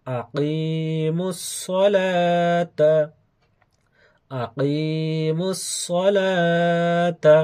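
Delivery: slow, chanted Quranic recitation with long held vowels; careful pronunciation demo. Shown as a demonstration. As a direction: stretch each long syllable on a steady note. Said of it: "আমি বলছি ভালোভাবে আপনারা শোনার চেষ্টা করবেন". (ধীরে টেনে টেনে সুরে উচ্চারণ)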